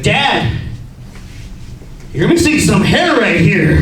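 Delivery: loud, drawn-out imitation of a kid; child pointing it out. Son telling his dad on the couch, loud and blunt. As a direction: announce it slowly and loudly, like a tactless child.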